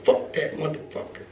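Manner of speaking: voiceless whisper of private contempt; whispered, bitter aside; whispered curse. Retold or imitated. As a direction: hiss it under your breath like a secret grudge. Retold private angry thought.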